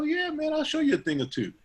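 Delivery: pitched high; cocky promise. Retold or imitated. Promising the barber to show him skills, high and cocky. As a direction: sell the boast.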